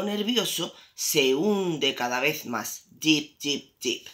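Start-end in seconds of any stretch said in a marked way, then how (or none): 2.9-4.1 descending, fading repetition; sinking down. A narrator's reading. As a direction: let the repeats sink away. Sinking deeper and deeper in water.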